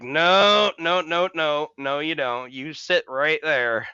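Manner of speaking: starts high and loud, then eases to a firm order; firm insistence. Retold or imitated. Helper orders injured man to stay seated, loud then firm. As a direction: stop him, then settle him down firmly. Firmly stopping the man leaving.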